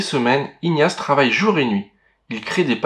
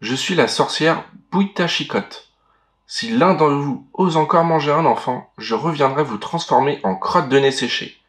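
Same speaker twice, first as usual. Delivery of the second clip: cavernous voice; 2 semitones higher than usual. Acted. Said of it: "d'une voix caverneuse".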